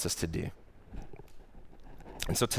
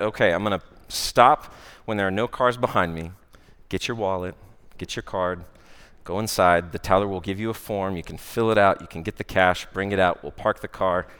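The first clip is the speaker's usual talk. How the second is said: calm slowed explanation. Retold or imitated. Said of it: "this time I slow it down".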